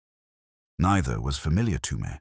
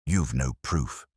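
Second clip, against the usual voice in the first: sneering; 3 semitones lower than usual. Acted. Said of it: "Penner sneered".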